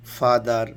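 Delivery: ফাদার drawn out slowly as ফা-দার; syllable by syllable. Shown as a demonstration. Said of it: "উচ্চারণ করা যায় তাকে syllable". (ফাদার শব্দটি ধীরে, ফা-দার করে অংশে অংশে)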